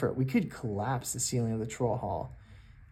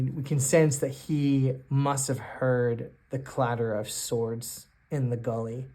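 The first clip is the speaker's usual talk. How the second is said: ordinary talk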